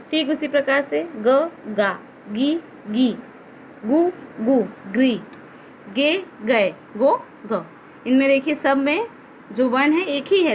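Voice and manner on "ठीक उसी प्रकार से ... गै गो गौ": ग गा गी गु गे गै गो गौ, each clearly spoken; reciting syllables. Shown as a demonstration. Teacher drilling ग syllables for pupils, clear recitation. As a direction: sound out each matra on ग. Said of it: "इसका उच्चारण हम अलग ढंग से करते हैं".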